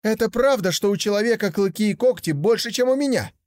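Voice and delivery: put-on high, eager young tiger voice; a curious cub wondering aloud; naive young tiger.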